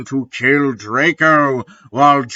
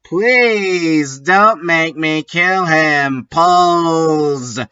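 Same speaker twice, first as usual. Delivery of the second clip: begging; 4 semitones higher, slower than usual. Acted. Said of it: "I begged".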